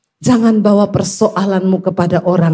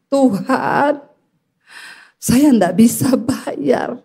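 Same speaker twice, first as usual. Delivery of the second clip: drawn-out, re-enacted plea; imitated tearful appeal; tearful prayer; much slower than usual. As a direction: confess helplessly to God, slowly. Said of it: "Saya nangis di hadapan Tuhan".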